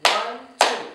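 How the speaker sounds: ONE, TWO as separate even beats; two-beat count. Shown as a demonstration. Teacher showing two syllables, clapped count of ONE, TWO. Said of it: "what did I do with my hands".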